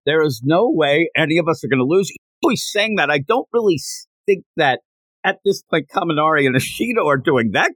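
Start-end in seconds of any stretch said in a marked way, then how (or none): 0.1-2.1 mock-excited, pitched high and bright with glee; giddy, high-pitched cheer about passing. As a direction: brag like a thrilled kid who can't believe it. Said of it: "like, really excited".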